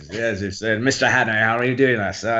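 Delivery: restrained English professor accent. Shown as a demonstration. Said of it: "I had to drop the English accent".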